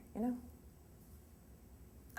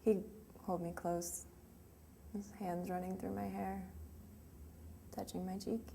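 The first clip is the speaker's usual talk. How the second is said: soft, wistful recollection of a lost love; tender reminiscence; 8 dB quieter than usual. Acted. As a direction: let the voice drop, lingering on each memory. Grieving monologue, remembering intimate nights together.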